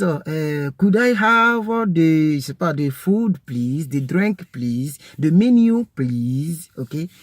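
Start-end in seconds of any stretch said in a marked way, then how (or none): 0.8-6.7 could I have the food, the drink, please; polite customer. Shown as a demonstration. Teacher acting a diner ordering items politely. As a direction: ask politely, item by item. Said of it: "modelling short orders".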